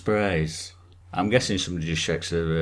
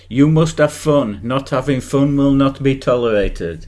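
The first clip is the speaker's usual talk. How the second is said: stern robotic announcer; 5 semitones higher, 9 dB louder than usual. Pretend. Quoting the controller's lines.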